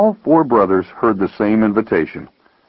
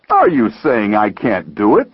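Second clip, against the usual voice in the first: slow, incredulous question; affronted, mildly incredulous challenge. Acted. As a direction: draw out the disbelief. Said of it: "asked incredulously".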